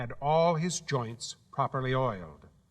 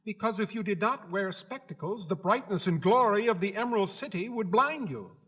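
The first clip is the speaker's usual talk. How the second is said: high, proud little gatekeeper; Guardian of the Gates; 6 semitones higher than usual. Acted. Gatekeeper laying down the rules to Dorothy, high and proud. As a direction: announce your post with self-importance.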